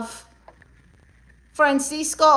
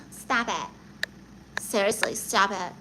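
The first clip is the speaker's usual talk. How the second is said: laughing; 4 semitones lower, 10 dB quieter than usual. Real, not acted. Flattered by a comment.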